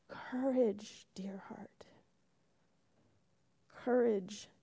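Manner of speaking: a true unvoiced whisper. Real, not acted. Pastor echoing the albatross to the congregation, whispered. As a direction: hush it like a secret in the ear. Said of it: "it whispered in Lucy's ear".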